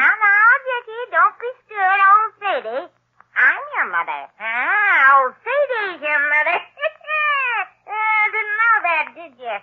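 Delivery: crooning crazed crone; old Sadie claiming to be the boy's mother; half-demented old hag. Acted. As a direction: coo madly at the child. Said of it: "haggard, half-demented creature".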